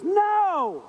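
high sharp mock no; a startled snatching no. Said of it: "The lady behind me says".

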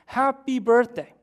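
loud, high, drawn-out cheer; mock surprise-party yell. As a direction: imitate a crowd yelling a surprise, slowly. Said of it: "screamed at the top of their lungs".

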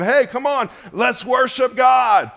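high, shouted rallying call; rousing worship leader. Retold or imitated. Worship leader urging the congregation on, high rousing shout. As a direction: call the crowd up to worship, drawing it out. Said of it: "Randy's not on the stage with a guitar going".

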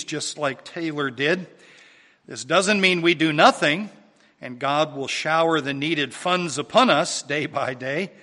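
loud, projected sermon points; firm pulpit delivery; emphatic preaching. Real, not acted. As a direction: drive each point home to the congregation.

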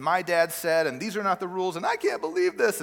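mock-indignant child arguing with the babysitter; imitated protesting child. Acts out daughter arguing with babysitter.

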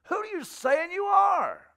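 indignant interrogation that climbs in pitch; incredulous challenge. Acted. Acting out challengers of Jesus.

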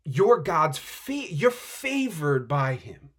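slow, deliberate announcement; slow solemn greeting. Acted. Angel greeting Mary, slow and solemn. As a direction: weigh every word slowly. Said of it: "saying to this woman".

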